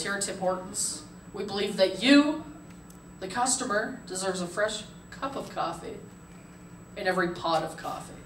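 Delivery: soft, measured radio commercial voice; hushed mock-earnest commercial announcer. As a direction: imitate a sincere ad read, pausing between phrases. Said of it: "Guy comes on the radio and he goes".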